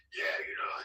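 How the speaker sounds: lightly voiced conspiracy rant with a scraggly edge; a hint of Alex Jones ranting about globalists; Alex Jones impression. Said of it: "the guy with the scraggly voice, Alex Jones".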